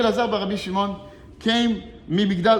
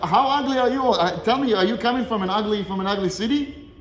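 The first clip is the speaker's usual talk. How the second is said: mocking rabbi; 3 semitones higher than usual. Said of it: "The words of a rabbi to go up and say that".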